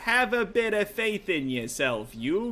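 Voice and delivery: put-on lightly done rough-edged sailor type, Brooklyn-ish accent; rough adventurer NPC. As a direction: read it as a cocky old rogue telling a tale.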